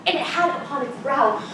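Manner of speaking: giggling through the story; can't stop laughing at the memory; words bubbling with laughter, a high giggled "Ay, oh" in the middle; laughing while telling. Acted. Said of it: "I cannot choose but laugh".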